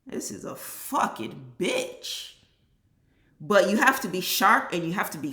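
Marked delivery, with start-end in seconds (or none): 0.1-2.3 whispered frustration. Real, not acted. Frustrated aside while ranting.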